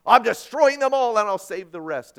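loud, booming mock God; God's voice. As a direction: thunder like an avenging God. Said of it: "God strikes them down and says".

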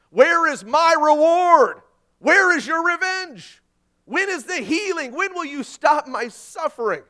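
loud, high, anguished crying out; saints crying out. Retold or imitated. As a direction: plead at the top of your voice. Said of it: "tribulation saints were saying".

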